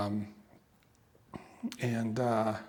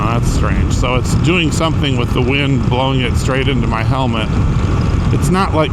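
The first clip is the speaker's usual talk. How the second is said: raised voice over wind; 2 semitones higher, 3 dB louder than usual. Real, not acted. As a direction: speak up inside a helmet on the move. Talking in helmet while riding.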